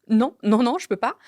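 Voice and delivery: refus plus fort et plus aigu; refus paniqué rejoué. Retold or imitated. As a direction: protester en haussant la voix. (refus rejoué, voix haussée)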